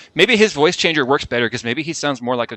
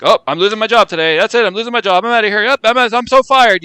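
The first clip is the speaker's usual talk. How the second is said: mock dramatic despair; 9 semitones higher, 6 dB louder than usual. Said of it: "the joke you kept saying".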